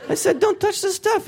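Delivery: put-on high-pitched outrage at the kids; angry god. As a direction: squeal it like a furious dad. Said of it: "he's like".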